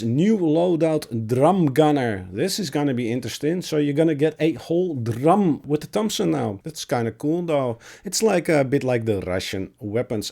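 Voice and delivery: cracky, squeaky sick voice; voice cracking. Real, not acted. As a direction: talk through a sore, cracking throat. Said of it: "if my voice sounds cracky and squeaky".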